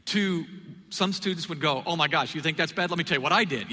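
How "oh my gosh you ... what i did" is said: louder and eager, leaning in; eager oneupmanship. Retold or imitated. A partier eagerly trading confessions, louder and excited. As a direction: play the student who can top any sin.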